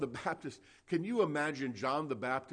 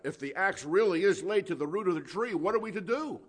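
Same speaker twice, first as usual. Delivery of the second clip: mildly raised, higher crowd cry; 5 semitones higher, 6 dB louder than usual. Retold or imitated. The crowd answers John the Baptist, crying out in mock appeal. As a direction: call out an urgent question, voice climbing. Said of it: "they cried out".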